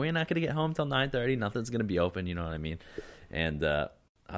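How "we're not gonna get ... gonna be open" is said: mock upset girlfriend, pitched much higher; hammed-up imitation of a hungry, annoyed girlfriend. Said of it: "she got genuinely upset".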